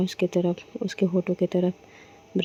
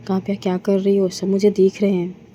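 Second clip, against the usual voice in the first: louder, embarrassed objection; flustered protest; 5 dB louder than usual. Acted. Woman carried before the servants protests loudly, embarrassed. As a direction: protest while being carried past everyone.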